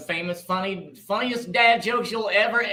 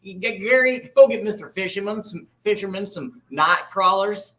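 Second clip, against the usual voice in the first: folksy Marty; 4 dB louder than usual. Acted. Marty character voice.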